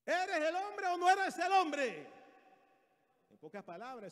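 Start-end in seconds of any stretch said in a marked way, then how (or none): 0.0-2.1 high, loud, drawn-out challenge; forceful, raised-pitch dare; Jezabel confronting her husband. Acted. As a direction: hammer the demand at a weak husband. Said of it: "eso fue lo que le dijo".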